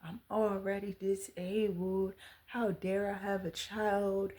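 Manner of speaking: slow, half-whispered mock rant; woman retells stranger's rant, lightly mocking and slow. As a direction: mimic a judgmental stranger with scorn. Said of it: "he goes into this rant".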